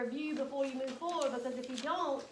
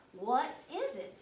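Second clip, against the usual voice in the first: a loud complaining cry; complaining shout; 3 semitones higher, 7 dB louder than usual. A narrator's reading. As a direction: raise the voice in protest. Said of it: "I complained".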